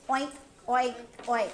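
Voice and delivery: pig oink. Shown as a demonstration. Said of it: "Show me the pigs".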